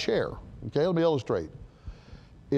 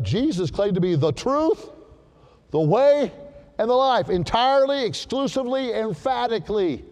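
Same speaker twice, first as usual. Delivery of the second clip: preaching at full force; 6 semitones higher than usual. Acted. Preaching exclusive claim, rising.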